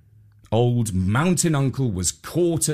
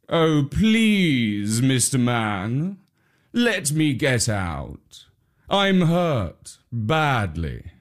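tiger; much slower than usual. Acted. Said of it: "said the tiger".

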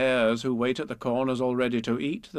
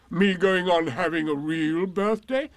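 Eeyore; 6 semitones higher, 6 dB louder than usual. A narrator's reading. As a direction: stretch it out in astonishment. Eeyore astonished.

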